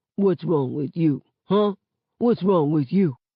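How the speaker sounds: voice dropped way down, very deep. Father cradling his child on his lap, kissing its cheek, in a real deep voice. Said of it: "going over and over in a real deep voice".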